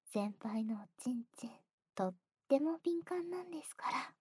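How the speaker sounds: breathy ear whisper; teasing whisper. Acted. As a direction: whisper the tease softly.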